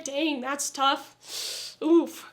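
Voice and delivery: slow, flat mock sympathy; deadpan fake condolence; unbothered reaction. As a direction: drag it out like you don't care. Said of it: "I was like".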